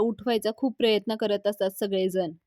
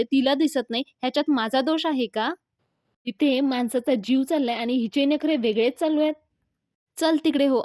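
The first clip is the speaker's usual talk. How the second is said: indignant scolding; 3 semitones higher, 3 dB louder than usual. Acted. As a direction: voice pushed up and louder by the end. Acted scolding of a blind woman.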